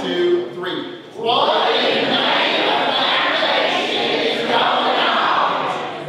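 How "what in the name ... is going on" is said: loud, high, drawn-out Southern twang yell; stretched twangy Southern shout in unison. Shown as a demonstration. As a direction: holler it slowly with a big Southern twang. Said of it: "now we're gonna do it with the twang".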